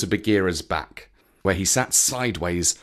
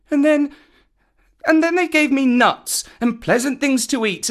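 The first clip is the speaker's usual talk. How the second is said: put-on high, eager little boy; breathless-to-please child storyteller; excitable Mowgli; 12 semitones higher, 4 dB louder than usual. A narrator's reading. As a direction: blurt out your defence, stumbling and restarting. Boy tells his tale.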